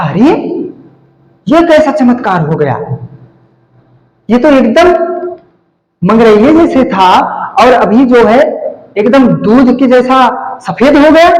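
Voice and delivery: high, astonished exclamation; a father stunned by his son's new fair skin, exclaiming in wonder; amazed father. Retold or imitated.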